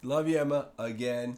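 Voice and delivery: a loud, playful shout-out to a friend. Real, not acted. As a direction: call her name out cheerfully. Shout-out to Emma on podcast.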